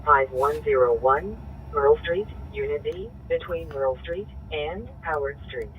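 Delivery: dispatcher over a scanner; tinny radio dispatch call; police radio. Real, not acted.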